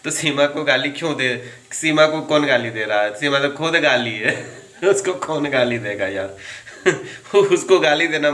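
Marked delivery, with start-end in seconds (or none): 4.6-6.4 amused, laughing question; laugh, then scoff jokingly. Real, not acted. Laughing at his own jibe. 6.8-7.3 short amused laugh; brief giggle at your own jibe; quick chuckle. Real, not acted.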